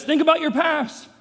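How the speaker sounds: enemy's tempting voice. Acted. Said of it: "So the enemy says".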